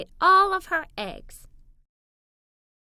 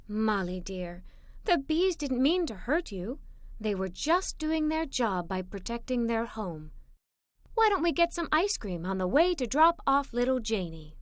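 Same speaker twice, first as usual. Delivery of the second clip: gentle mother; 3 semitones lower, 3 dB quieter than usual. Acted. Mother gently calming upset daughter.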